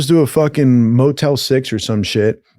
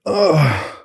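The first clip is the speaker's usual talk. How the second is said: pained groan; 4 semitones higher than usual. Retold or imitated. Woken by pounding on chest.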